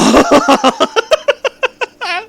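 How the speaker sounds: high, loud cackling laugh; cracking up mid-read; burst of laughter. Real, not acted. Reader loses it at own Squidward voice, loud laughter.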